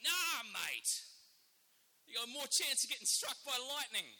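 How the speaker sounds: high, loud show of confidence; feigned bravado. Retold or imitated. Australian loudly reassuring his nervous friend about sharks, with feigned bravado. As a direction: shout it like nothing could worry you. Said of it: "so I had to at least pretend".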